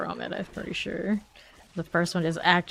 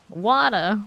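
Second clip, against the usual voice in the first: character voice; 3 semitones higher, 6 dB louder than usual. Retold or imitated. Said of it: "Wada, he says".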